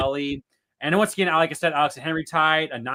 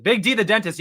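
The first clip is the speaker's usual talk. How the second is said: "Big D, the dentist" punched louder; emphatic title; 5 semitones higher, 4 dB louder than usual. Shown as a demonstration. Host repeating the nickname, emphatic.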